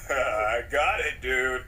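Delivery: very low, grown-man rumble. Pretend. Kid proud of his new voice, deep grown-man voice. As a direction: talk like a big grown man. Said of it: "You sound like a grown man".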